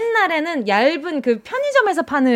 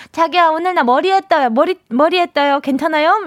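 put-on cutesy baby-talk lisp, higher; 4 semitones higher than usual. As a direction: coo it with a lisp. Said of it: "혀 짧은 소리 냈어요".

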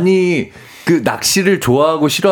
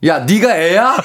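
higher-pitched, laughing mock rebuke; mock scolding; 6 semitones higher, slower than usual. Boss scolding an employee for a cutesy greeting, mock-annoyed. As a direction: play an exasperated boss, amused. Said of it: "귀엽게 인사를 했더니".

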